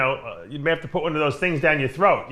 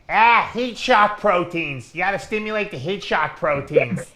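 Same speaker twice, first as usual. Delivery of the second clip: Blackman; slower than usual. Retold or imitated. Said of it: "what would, uh, Blackman say?".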